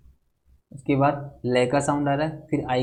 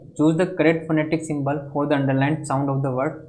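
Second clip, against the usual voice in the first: slow, careful reading of an exam question; slow question dictation; much slower than usual. Acted. Teacher dictating a quiz question to students, slow and measured. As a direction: read the English question out very slowly for the class.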